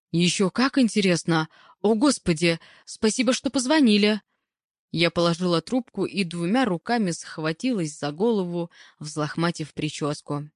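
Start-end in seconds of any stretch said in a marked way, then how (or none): 0.1-4.2 rising, flustered exclamations; mildly worked-up phone reply; agitated thanks. Acted. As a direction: react eagerly to startling news. Narrator reacts to startling phone news.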